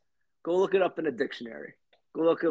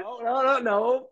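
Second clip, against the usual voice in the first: emphatic no; 7 semitones higher, 4 dB louder than usual. Real, not acted. Emphatic rejection of guess.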